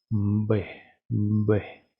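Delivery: B sonora, con zumbido en la garganta antes de soltarla; B con vibración. Shown as a demonstration. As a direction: say B with the throat buzzing first. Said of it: "Agregar la vibración". (B con la garganta vibrando)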